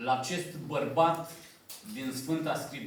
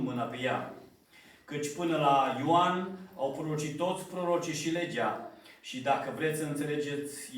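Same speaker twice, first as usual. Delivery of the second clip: measured, solemn Bible reading; scripture reading. Acted. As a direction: read the verses out to the congregation with gravity.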